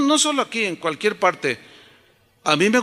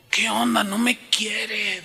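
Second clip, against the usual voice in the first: raised, drawn-out mock grumble; frustrated; 3 semitones higher, slower than usual. Boy leaving after dad refused him, frustrated and drawn out. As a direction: grumble like a wronged kid, pitched up. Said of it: "me salía todo frustrado".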